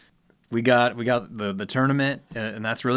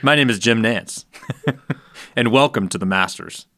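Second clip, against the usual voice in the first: lightly voiced sportscaster welcome; deliberate broadcast greeting with pauses between phrases; Jim Nantz. Co-host attempts a golf announcer impression on request, lightly voiced. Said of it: "Do your best Jim Nantz impersonation".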